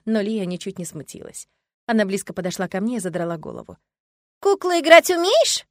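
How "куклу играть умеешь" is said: put-on high, slow, stern child's voice; a tiny girl demanding an answer; stern little girl. Little girl testing the heroine about dolls, stern child voice. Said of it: "ещё строже спросила она".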